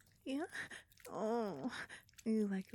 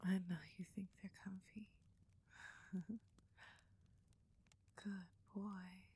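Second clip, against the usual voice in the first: pillow talk. Acted. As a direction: soothe him gently to sleep. Cuddling after climax.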